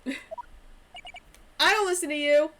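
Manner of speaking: slow defiant mock hero; hammed-up rule-breaker boast; lightly voiced cocky lawyer; rebel Phoenix. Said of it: "I'm a loose cannon".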